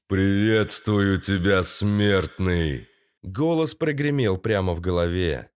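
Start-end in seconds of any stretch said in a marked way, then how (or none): 0.1-2.9 low, slow booming deity; god voice. Acted. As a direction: speak as lord of the dead. Underworld lord speaks.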